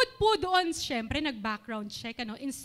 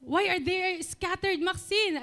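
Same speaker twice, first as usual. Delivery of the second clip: retold questioning with the voice a touch raised; mildly raised voice, slowing on the question; slightly raised voice; 3 semitones higher, slower than usual. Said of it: "medyo lumakas din po yung boses ko ng konti".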